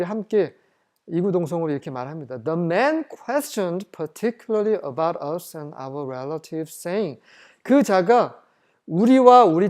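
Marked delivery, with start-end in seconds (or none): 2.4-7.2 slow, measured Bible reading; scripture reading. Acted. Preacher reading the verse to the congregation, slow and measured. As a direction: read each English word out slowly. Reads scripture aloud slowly.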